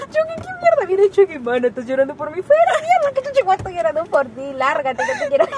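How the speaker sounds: shrieky high mock telling-off; hammed-up loud outrage, chasing someone away; acted angry quarrel. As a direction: imitate a furious row at high pitch. Acting out a drunken quarrel.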